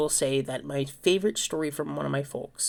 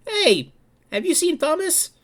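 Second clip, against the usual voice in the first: grandfather on the phone; 12 semitones higher than usual. Retold or imitated. Grandfather calling supply building.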